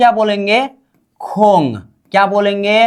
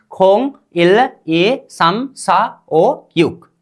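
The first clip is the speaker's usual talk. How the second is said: slow, separated count; measured teacher's recital of numbers; pronunciation drill; much slower than usual. Shown as a demonstration. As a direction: say each Korean number on its own for learners. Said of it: "अब उच्चारण कीजिए आप लोग".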